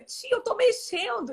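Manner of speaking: put-on high, childlike voice of a proud little patient; little girl's voice. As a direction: imitate a small girl showing off her progress. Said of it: "e ela fica".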